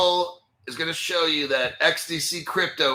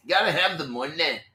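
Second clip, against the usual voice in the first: jokey mock Irish accent on money; fake Irish-Scottish accent. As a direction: put on a playful Scottish-ish lilt. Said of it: "Irish accent or my Scottish accent".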